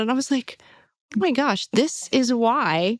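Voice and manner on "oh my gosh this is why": higher, heartfelt realization; a little emotional. Real, not acted. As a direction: say it moved, higher, drawing out the words. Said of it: "I'm getting a little emotional about it".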